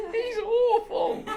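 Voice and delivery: high squealing laugh through the words; slow, high laughing delivery. Real, not acted. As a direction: laugh it out, delighted. Laughing at someone's awfulness.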